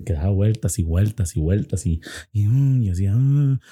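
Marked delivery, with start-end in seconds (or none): 2.5-2.8 imitated uneasy "mm"; uncomfortable restless hum. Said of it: "como, como incómodo". 3.1-3.6 imitated uneasy "mm"; uncomfortable restless hum. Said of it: "como, como incómodo".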